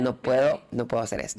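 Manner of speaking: imitating herself on the verge of tears; retold crying. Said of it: "me puse a llorar".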